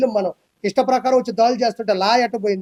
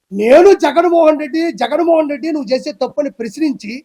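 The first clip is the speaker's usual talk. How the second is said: heated shout; 4 semitones higher, 4 dB louder than usual. Real, not acted. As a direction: hammer out each word in anger. Heated accusation against politician. (కోపంగా నెమ్మదిగా అరుస్తూ)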